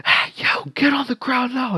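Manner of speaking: urgent whispered threat in the dark; whispered command. Retold or imitated. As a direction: play the masked raider, whispering the order. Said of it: "I kept up the act".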